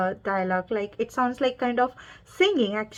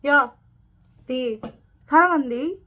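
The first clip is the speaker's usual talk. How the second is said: Busan dialect; 3 semitones higher, 4 dB louder, much faster than usual. Shown as a demonstration. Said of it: "Let's see some example".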